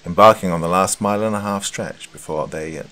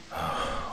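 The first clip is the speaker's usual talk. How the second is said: light sigh; 9 dB quieter than usual. Acted. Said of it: "Clocksmith lightly sighed before responding".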